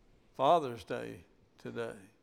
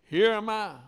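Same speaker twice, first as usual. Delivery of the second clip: put-on higher, eager child's voice; little Isaac calling his daddy; 8 semitones higher, 9 dB louder than usual. Preacher voices young Isaac answering, higher and childlike. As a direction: sound like a boy calling up to his father. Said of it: "And he said".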